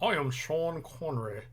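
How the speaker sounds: mock Scottish accent; Sean Connery. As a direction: have an unsure go at a Scottish accent. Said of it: "just think of Sean Connery".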